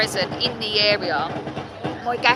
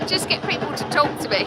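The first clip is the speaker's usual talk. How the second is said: laughing through the words; giggling; 3 semitones higher than usual. Real, not acted. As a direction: giggle while you speak, real and light. Giggling over her own gushing.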